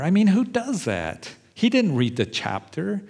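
mock-astonished aside to the congregation; amazed disbelief. Real, not acted. Preacher marvels at Peter.

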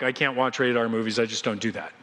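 low, falling, reserved reply; acted reluctance, dropping in pitch; subdued refusal. Friend declines the movie invitation.

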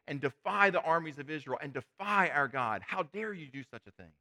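mildly fired up, daring the giant. Acted. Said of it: "David's getting fired up".

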